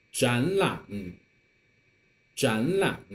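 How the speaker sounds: 展 rising like a second tone before 览; teacher's model of 展 with rising tone; third tone changed to second. Shown as a demonstration. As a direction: lift 展, then drop into third-tone 览. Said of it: "some more examples that you can join".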